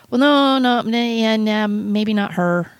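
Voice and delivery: lightly voiced God hemming and passing her over with a laugh; God doubting. God looks down at the speaker and hesitates, lightly mock-doubtful. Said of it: "I could imagine what he thinks of when he looks down at me and, and goes".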